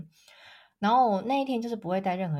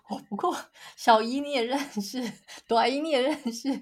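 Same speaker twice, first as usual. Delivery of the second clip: mock-exasperated, higher than usual; mildly hammed-up inner grumble; 5 semitones higher, 5 dB louder than usual. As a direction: list it off in comic protest, stretching the last question. Exasperated inner protest, retold.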